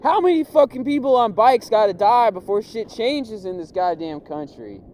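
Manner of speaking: loud, high indignant rant; mock outrage. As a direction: protest it like a pundit. Rant about dying cyclists.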